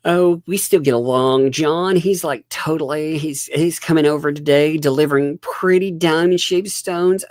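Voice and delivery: high mocking imitation of a gushing woman; high, loud mock gushing voice; mocking her. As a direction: mimic her bragging, sing-song and silly. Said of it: "she's also been saying things like".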